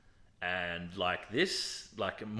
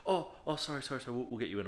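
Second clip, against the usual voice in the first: apologetic receptionist; 3 semitones higher, 4 dB quieter, faster than usual. Retold or imitated. Receptionist backing down to upset patient, imitated apology. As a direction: mimic a flustered climb-down.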